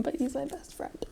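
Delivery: soft whispered aside. Real, not acted. Mom whispering fondly about her son. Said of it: "I'm just emotional".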